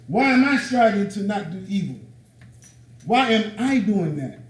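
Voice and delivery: driving rhetorical questions, each opening punched; insistent self-questioning. Acted. Preacher questioning his own faith aloud, insistent. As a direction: press each question home, then let it fall.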